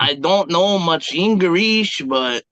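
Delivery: badly faked sing-song Chinese accent; hammed-up, inaccurate Chinese accent; fake Chinese accent. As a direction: attempt a Chinese accent and muddle it. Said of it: "Chinese accent?".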